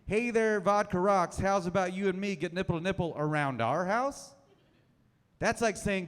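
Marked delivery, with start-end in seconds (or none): 0.1-4.3 quoted pickup line. Retold or imitated. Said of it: "So saying".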